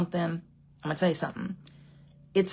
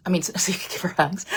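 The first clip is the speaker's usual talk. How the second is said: laughing aside; faster than usual. Real, not acted. Laughing at her own joke.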